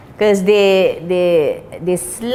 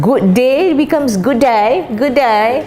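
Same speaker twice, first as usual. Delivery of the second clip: "good day" bent toward "good die" in a light mock Aussie; imitating the slanted Australian vowel; 3 semitones higher, 3 dB louder than usual. Shown as a demonstration. Teacher showing how Australians slant "good day". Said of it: "but they slant it".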